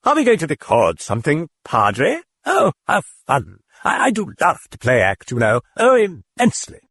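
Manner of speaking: high, chirpy cheerful voice; happy chatter. A narrator's reading. The thing greeting the priest happily. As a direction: bubble with glee. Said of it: "it said happily".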